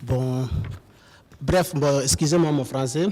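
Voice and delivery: French with a West African accent; halting French, strong African accent; foreign accent in french. Real, not acted. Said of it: "je comprends pas bien français".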